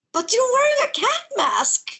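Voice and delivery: put-on high girlish voice; young girl. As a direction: ask it like a puzzled little girl.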